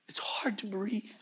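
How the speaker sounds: slow, faint imitation of a dying man; breathless whisper. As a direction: whisper it slowly, barely any voice. Quotes dying father's words.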